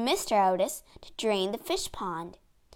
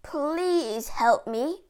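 pleading; 4 semitones higher, much slower than usual. Acted. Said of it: "Sir Simon called".

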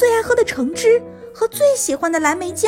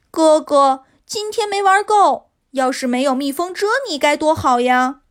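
put-on pouting child. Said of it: "嘟着嘴说".

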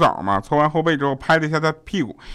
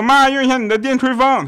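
put-on high-pitched child pestering mum; high, whiny-kid request; calling to mum; 12 semitones higher, 4 dB louder than usual. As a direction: call out high, asking mum for a favour. Child pestering mum in retold exchange.

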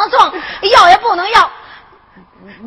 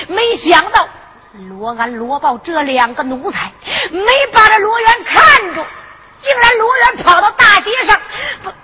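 alarmed outburst; 4 semitones higher than usual. Acted. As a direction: blurt it out in alarm. Panicked report of the disaster. (慌张地喊)

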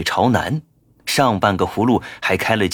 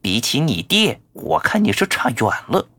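muttering creature; 5 semitones higher than usual. Acted. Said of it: "小声嘟囔".

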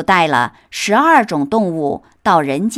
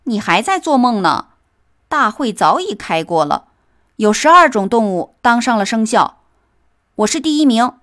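a touch of smug pride, higher; smug, cocky; 5 semitones higher, faster than usual. Acted. Mouse boasts to the cat, lightly smug and cocky. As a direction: brag it at the sleepy cat. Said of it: "老鼠神气活现地回答".

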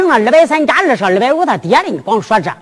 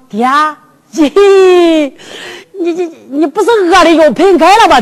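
laughing while talking; 3 semitones higher than usual. Acted. Son teases father laughing.

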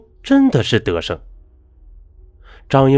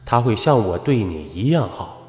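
gentle ghost husband; 2 semitones lower, 4 dB quieter than usual. Acted. Ghost husband consoles wife.

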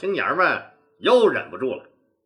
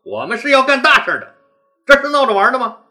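stern rebuke; 4 semitones higher, 5 dB louder than usual. Acted. Leader scolds latecomers grimly.

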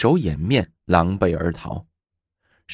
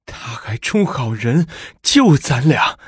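indignant; 5 semitones higher than usual. Acted. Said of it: "住持愤愤地说".

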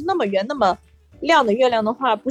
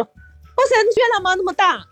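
surprised; 8 semitones higher than usual. Retold or imitated. Colleague amazed at the moon.

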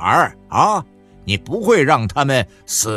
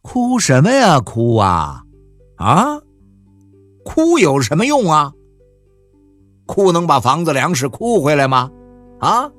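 louder, sharp rebuke; scolding; 4 semitones higher, 3 dB louder than usual. Acted. Husband scolding his crying wife. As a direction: snap at her to stop crying.

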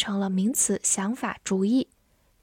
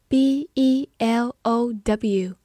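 slow letter-by-letter spelling; much slower than usual. Shown as a demonstration. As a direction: spell it slowly, each letter separate. Teacher spells out the word. (逐个字母慢慢拼读)

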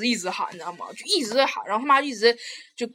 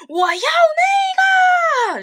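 imitated crying whine; 6 dB louder than usual. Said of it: "孩子".

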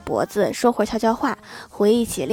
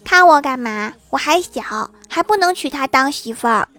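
put-on higher, child-like defensive voice; the son guarding against his parents' look, defensive child; wary kid; 4 semitones higher than usual. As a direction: sound like a wary little boy. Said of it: "郭晓霞一脸警惕".

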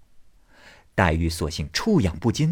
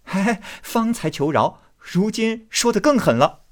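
Baoyu laughing; 12 semitones higher, 3 dB louder than usual. Acted. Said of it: "笑道".

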